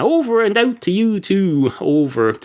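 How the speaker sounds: a hint of the other radio operator; radio reply. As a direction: answer a sign-off over the radio. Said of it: "the other fella would say".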